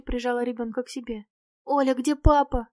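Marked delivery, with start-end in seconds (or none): 1.6-2.7 louder plaintive question, lightly wailed; mild narrated wail of a frightened child; child's wail. A narrator's reading. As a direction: voice a distressed little girl, understated. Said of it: "провыла девочка".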